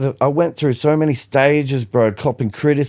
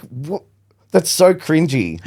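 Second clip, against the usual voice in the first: mocking critics; 5 semitones higher, slower than usual. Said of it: "they're like".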